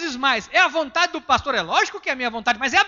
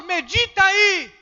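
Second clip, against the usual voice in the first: quoting the presbyter; 5 semitones higher, 7 dB louder, much slower than usual. Retold or imitated. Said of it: "Ela disse, pastor".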